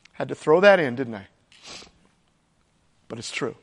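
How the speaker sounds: soft, low, half to himself; murmured confession; quiet aside. Real, not acted. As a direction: drop the voice for a personal aside. Aside about cancer.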